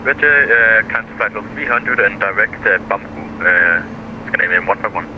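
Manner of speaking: over a pilot headset. Real, not acted. Pilot radio readback.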